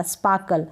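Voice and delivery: स्पार्कल with the R barely there, like "spaa-kal"; very light R. Shown as a demonstration. Teacher telling learners it will do, R barely pronounced. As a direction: soften the R in स्पार्कल almost to nothing. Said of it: "हल्का सा pronounce करें".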